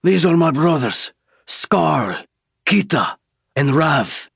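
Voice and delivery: high, slow alien voice, measured; name yourself like a leader; commanding alien leader. Acted. Kor to the human soldier: slow, high, commanding.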